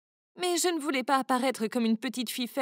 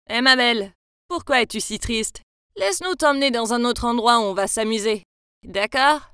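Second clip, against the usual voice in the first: sleazy come-on; 2 semitones lower, 6 dB louder than usual. Acted. Boy leering at the girl.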